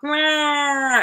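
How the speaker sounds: mock wailing "wah"; imitated wail. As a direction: wail like an overwhelmed crowd. Imitates people's overwhelmed cry.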